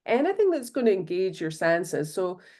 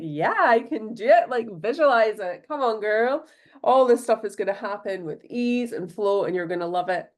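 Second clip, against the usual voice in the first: fired-up pep talk. Retold or imitated. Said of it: "now I'm, like, fired up".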